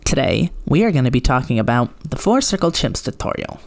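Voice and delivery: imitating an old video intro, swooping intonation; mock old tutorial voice. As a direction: present it like an exaggerated tutorial narrator. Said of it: "where I talked like".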